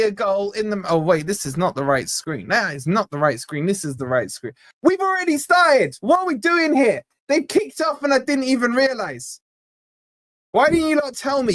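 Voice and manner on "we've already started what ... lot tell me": much higher, alarmed disbelief; suddenly realizing he's missed kickoff; caught off guard. Real, not acted. Streamer realizing kickoff passed, alarmed disbelief. Realizes the match already kicked off.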